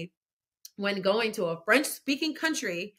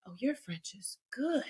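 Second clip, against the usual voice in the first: imitating impressed strangers, pitched up; impressed surprise; 7 semitones higher than usual. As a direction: retell their pleasantly surprised question. Acts out impressed Black French people.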